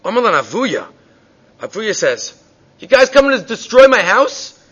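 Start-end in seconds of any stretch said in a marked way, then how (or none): 2.8-4.6 high, loud alarmed yelling; outraged father shouting high and loud; screaming father. Retold or imitated. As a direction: yell at the rabbis to stop burning your house. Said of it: "He starts screaming at them".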